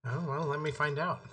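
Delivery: glitchy robotic stream audio. Real, not acted. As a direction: voice breaking up like a robot. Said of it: "You sound robotic".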